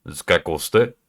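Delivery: deep voice with a rising end; deep accent practice. Shown as a demonstration. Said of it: "It's quite deep like this".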